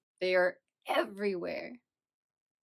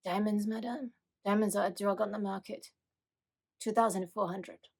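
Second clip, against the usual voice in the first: shady dealer. Retold or imitated. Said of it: "that are, like, super shady".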